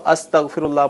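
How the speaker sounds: استغفر اللہ as astaghfirullah, starting with a; recitation form. Shown as a demonstration. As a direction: show استغفر اللہ with an a on the alif. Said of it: "اگر اس طرح پڑھیں گے تو". (استغفر اللہ الف پر زبر کے ساتھ)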